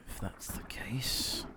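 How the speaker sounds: slow whispered resignation; whispering. Acted. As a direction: let it fade into a whisper. Grudging reply in character.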